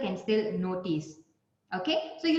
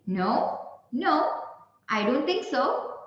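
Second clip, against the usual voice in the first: disagreeing; 3 semitones higher, slower than usual. Shown as a demonstration. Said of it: "your disagreement".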